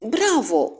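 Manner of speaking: high-pitched cheer; enthusiastic cry. A narrator's reading. Hastings cheers his friend's discovery, crying out enthusiastically. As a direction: call out bravo with lifted pitch. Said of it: "am strigat entuziasmat".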